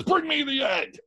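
high, confident lightly mock command; commanding Columbus. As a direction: call for it like a showman.

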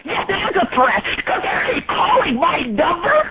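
breaking into a wailing cry; crying shout. Pretend. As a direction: shriek it through tears. Outraged rant at telemarketer.

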